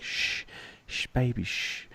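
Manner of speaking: hushing whisper. Retold or imitated. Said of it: "She's like".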